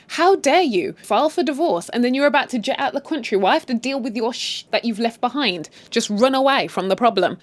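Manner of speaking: a touch of mock outrage; angry wife. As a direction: act out a wronged wife's telling-off. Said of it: "She gets angry".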